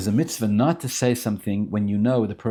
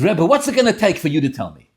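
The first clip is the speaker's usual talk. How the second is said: raised, loud exasperated plea; wound up; 7 semitones higher, 8 dB louder than usual. Retold or imitated. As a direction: act out a man at his wits' end. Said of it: "he's winding him up".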